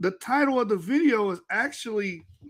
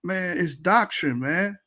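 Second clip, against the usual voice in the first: mild friendly correction; a friend setting him straight; slower than usual. Retold or imitated. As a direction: gently set a buddy straight. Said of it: "people around you not even telling you".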